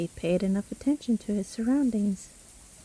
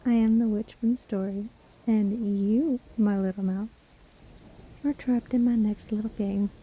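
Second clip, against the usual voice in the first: lightly voiced sly witch; a hint of mocking sweetness; gloating witch. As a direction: toy with your trapped prey. Witch reveals herself to trapped listener.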